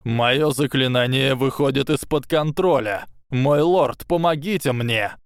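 high, panicky plea for help; nervous informant. A narrator's reading. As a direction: beg for help in rising fear. Quirrell panics, spell out of control.

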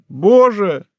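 escalating cry of despair on боже; anguished cry. Acted. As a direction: let the repeated боже burst into a cry.

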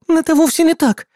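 high, insistent denial; insisting. A narrator's reading. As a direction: protest it, high and flustered. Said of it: "настаивала Сетеплёт".

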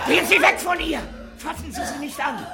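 high, loud urgent order; sharp command. Acted. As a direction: bark the warning to stay away. Doctor orders him away.

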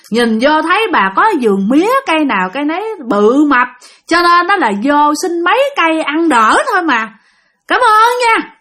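lightly croaking ghost woman thanking for sugarcane; throaty ghost woman. Retold or imitated. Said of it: "nói cái kiểu khạo, khạo trong họng".

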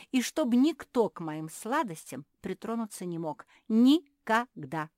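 loud, high, possessive demand; crying out. A narrator's reading. Pug forbidding anyone her sweets, crying out. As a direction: shout it, stretching out the final word. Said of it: "крикнула мопсиха".

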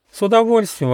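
high-pitched, eager little sheep; delighted exclamation. A narrator's reading. Sheep Lera happily agrees to show the way, exclaiming. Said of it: "воскликнула овечка Лера".

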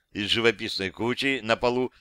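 plain reading voice

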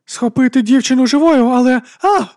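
loud, high command cut short; shouted order. A narrator's reading. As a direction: yell an order, end in a cry. Bishop orders capture, is yanked back.

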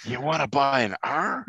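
sly hustler whisper-pitch; shady street peddler. Retold or imitated. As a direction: offer it like a sneaky salesman. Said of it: "I was thinking of that guy from, uh, Sesame Street".

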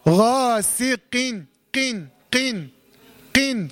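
drawn-out غاسقين, mildly emphatic q; lightly heavy qaf. Shown as a demonstration. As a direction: sound قين with a q from the back of the tongue, not k. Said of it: "يبقى هنطقها ازاي؟".

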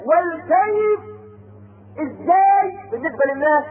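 weeping, drawn-out confession of faith; sobbing preacher at the pulpit; tearful. Real, not acted. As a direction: say it through real tears, slowly. Preacher weeps over faith.

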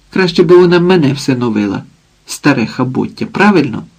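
lightly acted drunk mother, griping; lightly voiced drunk mother. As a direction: grumble like a tipsy mother complaining about the visitor. Drunk mother rants at daughter.

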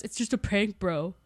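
soft, offhand brush-off; dismissive bro. Retold or imitated. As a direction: wave it away like a dad. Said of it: "he goes".

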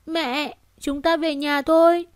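put-on high child voice, uneasy; uneasy little girl. Anxious daughter asking mother to go home, high uneasy voice. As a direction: ask to go home like a nervous child. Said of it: "Phán Phán bất an nói".

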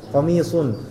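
"Komisun" with rounded lips on "sun"; thick s into a rounded u in "Komisun"; rounded sod with dhammah. Shown as a demonstration. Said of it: "itu nggak, nggak masalah". ("Komisun" dengan bibir monyong pada "sun")

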